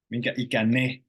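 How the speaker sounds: "ikäne" said without the final n of ikäinen; dropped final N. Shown as a demonstration. Teacher showing learners the colloquial ikäinen, final n dropped. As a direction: clip "Minkä ikäne?" as casual speech, no final n. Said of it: "we might not pronounce the final N".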